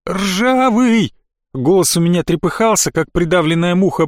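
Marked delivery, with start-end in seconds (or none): 0.1-1.1 calling out. Acted. Calling friend for help.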